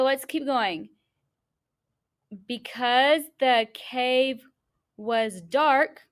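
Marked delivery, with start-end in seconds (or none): 2.5-6.1 slow and loud, pausing at every comma; a teacher modeling fluent reading; fluent read-aloud. Shown as a demonstration.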